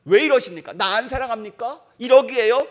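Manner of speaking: imitating an aggrieved believer's mild outburst; mock indignant complaint. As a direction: jab the questions like pointing a finger at God. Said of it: "하나님 앞에 삿대질합니다".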